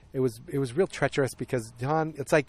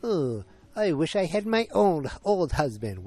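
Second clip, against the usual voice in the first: put-on high, slow, sulky little-girl whine; hammed-up childish pouting; mock pout; 6 semitones higher, slower than usual. Recapper mocking a wife sulking on child's bed, pouty whine. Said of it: "and she just pouts".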